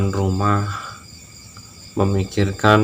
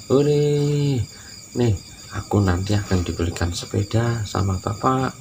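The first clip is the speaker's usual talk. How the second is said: joyful shout; 3 semitones higher than usual. Acted. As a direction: shout it to the friends, beaming. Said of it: "sambil berteriak". (teriakan gembira anak kecil)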